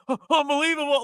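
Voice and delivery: high, loud mock-emotional announcer's call; overwhelmed play-by-play call, imitated; imitating shaking voice. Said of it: "he's, like, shaking".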